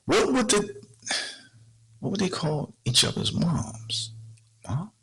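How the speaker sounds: half-whispered question to himself; musing whisper. Real, not acted. Wondering aloud to viewers, in a soft puzzled whisper.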